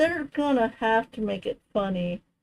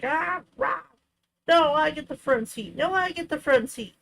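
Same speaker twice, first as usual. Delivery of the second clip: squabbling brothers; 5 semitones higher than usual. Retold or imitated. Lightly voiced brother fighting over the front seat, whiny. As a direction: bicker like a kid wanting the front seat. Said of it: "They fought like brothers".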